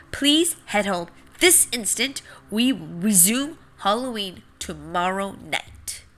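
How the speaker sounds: a hint of a formal announcer; lightly voiced announcer. Seed ending the fake alert, lightly official announcer tone.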